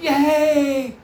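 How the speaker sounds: high drawn-out kiddie "yay"; excited kids cheering. Retold or imitated. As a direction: imitate kids whooping with hands thrown up. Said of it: "all the kids were so excited".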